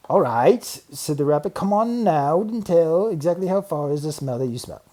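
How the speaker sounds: lightly voiced rabbit, pushy; challenging rabbit. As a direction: call his bluff.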